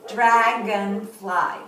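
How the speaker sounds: "Dragonfly" slowly in three beats, Dra, gon, fly; "Dragonfly" broken into three drawn-out syllables. Shown as a demonstration. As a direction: count out "Dragonfly" one syllable at a time. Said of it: "name the insect and count the syllables".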